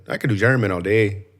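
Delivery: badly faked German accent; attempted German accent. Shown as a demonstration.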